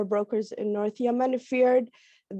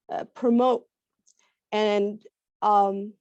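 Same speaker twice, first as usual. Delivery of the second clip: raspy voice. Real, not acted.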